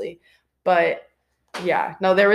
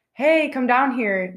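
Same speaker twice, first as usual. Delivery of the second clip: calling voice; 5 semitones higher, slower than usual. Retold or imitated. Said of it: "imagine you're just".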